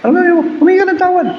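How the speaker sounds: urgent pulpit cry; preaching shout. Acted. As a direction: hit "humingi ka ng tawad" with a high preacher's call. Preacher repeating his exhortation.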